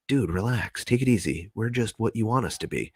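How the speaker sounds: calming hush. Retold or imitated. Entities calm him again.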